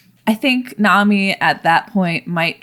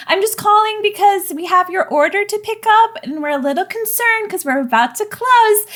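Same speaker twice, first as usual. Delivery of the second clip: much higher, polite, nervous phone message; high anxious voice; 11 semitones higher than usual. Acted. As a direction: leave a flustered, sweet voicemail. Nervous voicemail to late customer.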